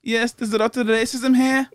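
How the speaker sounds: attempted South African; mock South African; South African accent. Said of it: "South African".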